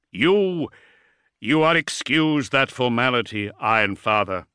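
strong first word, then measured authority; hesitant Primarch. Acted. Primarch excuses his guest's bow, taken aback but formal.

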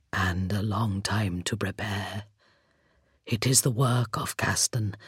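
a grave voice from bare jaws; skeleton voice. A narrator's reading. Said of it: "the hollow timbre of his voice".

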